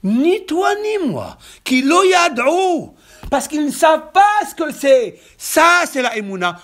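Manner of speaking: loud, high-pitched preacher's proclamation; prédication exaltée. Real, not acted. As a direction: proclaim each word forcefully to the congregation. Preaches at full force. (prêche à pleine voix, exalté)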